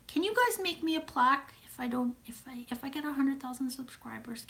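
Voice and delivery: high, soft near-whisper; timid little plea, barely voiced; hushed pleading. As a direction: ask in a tiny, breath-light voice. Small pleading request to viewers.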